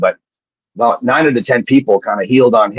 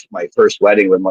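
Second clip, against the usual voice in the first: ordinary talk, nothing marked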